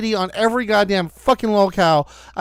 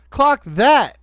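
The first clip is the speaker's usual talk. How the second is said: mocking her catchphrase; 4 semitones higher, 4 dB louder than usual.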